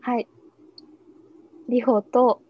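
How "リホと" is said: radio show title call. Shown as a demonstration. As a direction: announce the program name brightly. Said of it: "じゃあ、言いますね".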